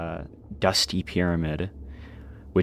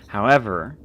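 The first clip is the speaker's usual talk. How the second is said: game master narration; 3 semitones higher than usual. Acted. Game master sets scene.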